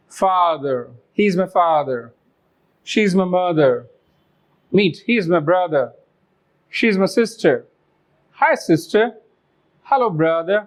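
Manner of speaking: father, mother, brother ending in uh; British non-rhotic. Shown as a demonstration. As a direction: drop every final r, British style. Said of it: "र के place पे हमने इसको अ कर दिया है".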